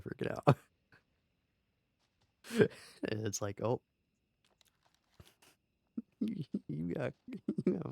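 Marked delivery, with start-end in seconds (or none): 6.2-7.9 laughing through the words; real giggles breaking up the teasing. Real, not acted. Amused by squirrel interrupting the scene.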